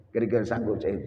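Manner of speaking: ordinary talk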